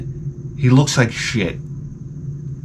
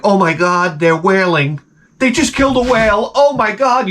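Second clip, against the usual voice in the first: a touch of alarm, voice pitched up; mild mock panic; 6 semitones higher than usual. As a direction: imitate a worried crowd crying out. Panicked people on deck retold.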